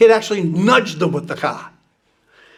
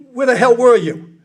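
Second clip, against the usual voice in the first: retelling the president's yell at his aide, loud and high; imitated yell; 5 semitones higher, 4 dB louder than usual. The president yells at the late aide, a loud and high mock yell. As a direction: bark it out like an angry boss. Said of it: "Johnson yells".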